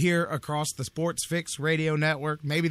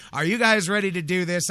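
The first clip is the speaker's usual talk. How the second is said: louder, pumped-up call to the listeners; fired-up hype; 3 semitones higher, 6 dB louder than usual. Real, not acted. Caffeinated host revving up his radio audience, loud. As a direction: rev up the audience on too much coffee. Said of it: "I did not wanna do that".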